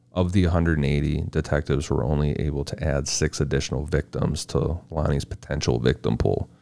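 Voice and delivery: even, measured case read; scripted true-crime narration. A narrator's reading. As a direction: read the case facts out steadily.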